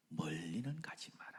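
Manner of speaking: a hushed, coaxing whisper; tempting whisper. Acted. Satan tempting Moses, coaxing whisper.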